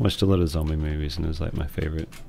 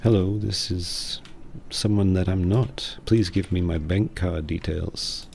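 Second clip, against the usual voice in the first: mock robot voice. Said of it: "a new voice box".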